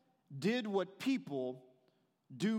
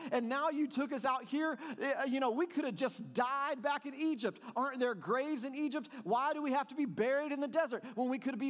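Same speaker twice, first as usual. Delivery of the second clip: higher, complaining Israelites, half-hearted whine; mock whining; 5 semitones higher than usual. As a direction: play the grumbling people who miss Egypt. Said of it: "They were professional whiners".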